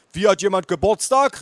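calling grandpa. A narrator's reading. Grandpa unaware of the birthday, calling out. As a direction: call out, taken aback. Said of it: "rief mein Opa".

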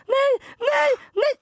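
high shrieking nos in mock panic; panicked mock screaming. Retelling her own panic at the pigeon, high mock shriek. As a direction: squeal no over and over like she's terrified. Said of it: "Jag bara".

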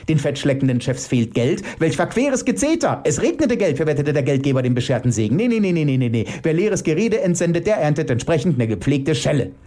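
high, worked-up tirade; agitated. Acted. Elke railing against greedy bosses, agitated. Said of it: "entgegnete Elke erregt".

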